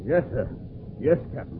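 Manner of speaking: low, beaten-down murmur; a humbled mate giving in; cowed. Acted.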